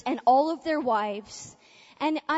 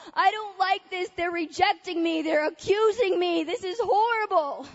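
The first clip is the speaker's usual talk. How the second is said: higher-pitched, mock-distressed complaint; retold distress; 4 semitones higher than usual. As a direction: reenact a mildly panicked protest. Retelling her distress at being accused.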